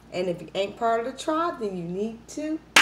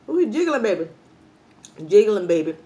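excited cheer; 7 dB louder than usual. Real, not acted. Vlogger cheering her jiggling pork foot, loud and delighted. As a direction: hype up the jiggling meat like a fan.

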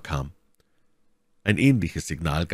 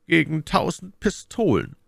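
high-pitched character voice; name the price in a high put-on voice; bargaining captain; 11 semitones higher than usual. A narrator's reading. Ship's captain setting his fare, high-pitched.

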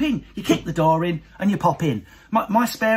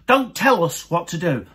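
imitating northern women. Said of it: "They pluralise themselves".

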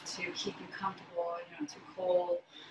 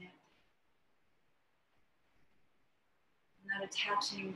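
measured meditation voice with long pauses; guided meditation. Acted. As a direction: guide them unhurriedly into stillness, pausing between phrases. Leads a guided breathing meditation.

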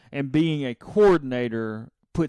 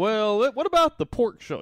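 higher, whiny customer voice; mock fussy customer; 8 semitones higher, 3 dB louder, slower than usual. Customer quizzing rude server, mock fussy. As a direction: ask it like a picky patron.

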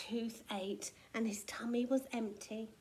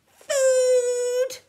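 very loud, high shouts; two huge greedy bellows; thundering roar; 13 semitones higher, 15 dB louder than usual. A narrator's reading. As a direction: roar hungrily at full force. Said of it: "thundered Tiny".

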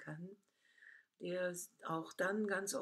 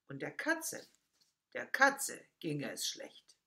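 put-on children's poem recitation. Speaker reciting a mouse poem for listeners, expressive recitation. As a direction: recite it playfully, leaning on the key words.

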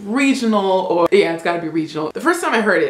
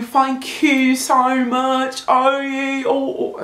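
A singer; 6 semitones higher than usual. Pretend. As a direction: gush in a put-on sing-song British accent. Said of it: "So if I were a singer".

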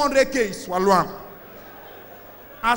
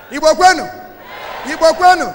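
crowd rallying call; 3 semitones higher, 7 dB louder than usual. Real, not acted.

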